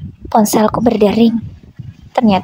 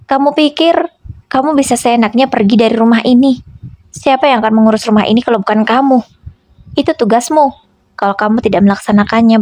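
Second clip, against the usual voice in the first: stern scolding, pitched up in bursts; firm and stern. Acted. Husband lecturing wife on her duties, understated stern scolding. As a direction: lay down the law, hard and firm. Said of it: "dengan nadanya yang semakin tegas".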